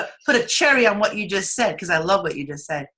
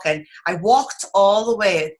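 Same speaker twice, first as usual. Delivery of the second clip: a little Brooklyn accent on "walked"; drawn-out "walked" with a touch of Brooklyn; 3 dB louder, slower than usual. Real, not acted. Host telling of a morning walk, slight Brooklyn accent. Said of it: "you just had a little Brooklyn accent".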